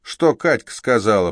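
loud, high jeering taunt; sneering thug. Acted. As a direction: lean on the dwarf with contempt. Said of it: "процедил блондин".

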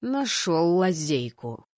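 slow, grudging remark; drawn-out royal grumble; grumbling highness. Acted. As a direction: grumble it out slowly. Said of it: "ворчливо заметил его высочество".

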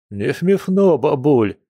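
high-pitched, put-out protest; grumbled retort. Acted. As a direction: snap back at granny, starting high. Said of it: "буркнул, судя по одежде".

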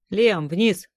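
urgent shout. A narrator's reading. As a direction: call it out loud. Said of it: "крикнул Макс".

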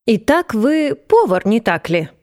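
slow, lofty aristocrat voice; haughty marquis. Acted. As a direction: look down your nose, drawl it. Marquis quizzes the cook.

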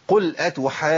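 "أتحاجون" with long held "aa", then held jim; careful long madd and firm jim in "أتحاجون"; correct doubled jim. Shown as a demonstration. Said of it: "ده النطق الصحيح للجيم".

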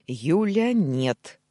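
loud, forceful angry refusal; growled. A narrator's reading. Husband trying to stop his wife, growling. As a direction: growl it as a firm order. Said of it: "зарычал я".

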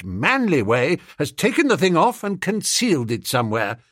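lightly voiced lofty young gentleman; pompous toff. Bertie lectures policeman.

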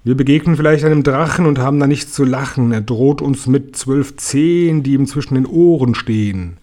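lively, rhythmic poem recitation; rhyming verse recital. A narrator's reading. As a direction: lean into the beat and rhymes with storyteller's relish. (rhythmisch vorgetragenes Gedicht)

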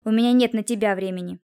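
"на тебя" given pointed emphasis; stress on НА ТЕБЯ. A narrator's reading. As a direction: lean on "на тебя" as a snub. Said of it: "Он выделил слово «на тебя»".

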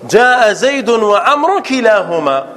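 slow, deliberate teacher's example; pausing on وعمر before كلاهما; slow model sentence. Shown as a demonstration. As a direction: spell the sentence out slowly for the class. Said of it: "teacher models example slowly".

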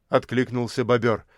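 ordinary delivery

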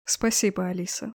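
soft hushed thanks; whispering. Acted. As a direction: breathe it close to her ear. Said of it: "шепнул змей-искуситель".

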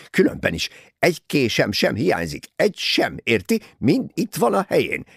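outraged, loud and high, dragging out key words; indignant fury. A narrator's reading. Bessner defending himself against a murder suspicion, furious. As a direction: thunder with offended pride. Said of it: "Bessner dühösen becsukta a táskáját".

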